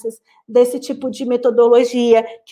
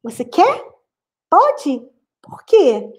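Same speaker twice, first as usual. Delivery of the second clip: questioning demo; 6 semitones higher, slower than usual. Shown as a demonstration. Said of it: "Tá vendo?".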